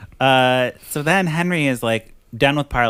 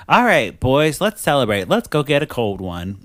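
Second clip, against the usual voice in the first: hearty rallying; 3 semitones higher, 3 dB louder than usual. Retold or imitated. Imitating king inviting the boys for beer, hearty rallying. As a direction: imitate a king rounding up his mates. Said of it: "and then he, like, is like".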